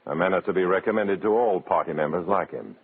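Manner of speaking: dry, wry noir narrator voice; story narration. A narrator's reading. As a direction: tell it like a hard-boiled narrator.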